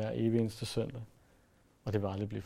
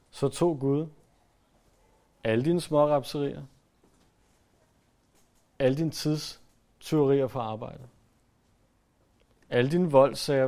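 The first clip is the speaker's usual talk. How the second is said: loud, rising preacher's list, each dine hit hard; preaching at full force; 2 semitones higher, 6 dB louder than usual. Acted. Preacher listing a congregation's sins to them, loud preaching. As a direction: hammer out the sins one by one.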